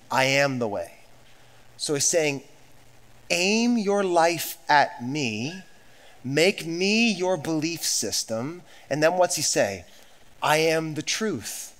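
softly unpacking it; soft and slow. Shown as a demonstration. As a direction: bring it down and explain gently. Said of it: "let me put it a different way".

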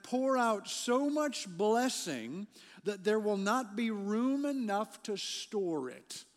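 emphatic, measured Bible reading; scripture reading. Real, not acted. Pastor reads Malachi to the congregation, emphatic scripture reading. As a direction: proclaim the verse with weight, stretching key words.

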